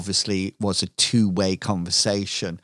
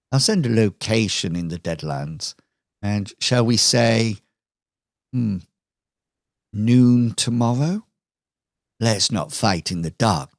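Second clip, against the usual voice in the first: smug villain Lucille. Acted. Villain Lucille taunts Jack on screen, lightly voiced smug villainess. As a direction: tease the hero with mock concern. Lucille lays out her showdown terms.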